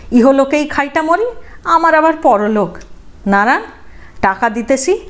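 high, defiant outburst. Acted. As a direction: hold your ground, alone and proud. Old widow's defiant outburst. (একলা বুড়ির জেদি, উঁচু গলার প্রতিবাদ)

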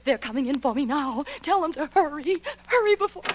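frantic plea. Acted. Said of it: "She was screaming she was about to be murdered".

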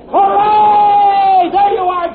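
loud, high cheer; triumphant cheer. Acted. Professor cheers the telephone's success, loud joyful shout. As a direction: shout for joy.

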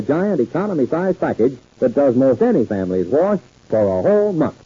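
brisk radio ad read; old radio announcer. Acted. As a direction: sell the soap, upbeat and clear. Reads the soap commercial.

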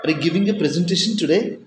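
yes-no question rising on today. Shown as a demonstration. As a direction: voice climbs from low to high at the end. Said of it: "rises from a low to a high level".

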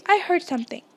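a sharp warning to companions; urgent, narrated interjection. A narrator's reading. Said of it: "said Harry sharply".

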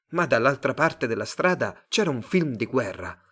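plain reading voice

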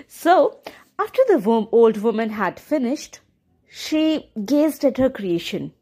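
gentle storyteller reading a fairy tale; story narration. A narrator's reading. Narrator telling the viewers a fairy tale, gentle storytelling. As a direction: read it like a bedtime story.

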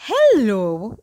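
low, drawling cow greeting; lazy cow. A narrator's reading. Cow chewing cud greets the girl, lazy drawl. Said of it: "A cow was lazily chewing cud".

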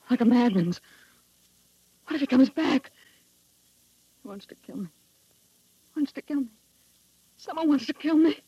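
rising panic as it sinks in; terrified. Acted. Wife alone after her husband's threat, terrified and panicking.

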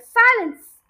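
high, loud commanding shout. A narrator's reading. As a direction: silence the giggling hall. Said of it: "wheeled round and yelled".

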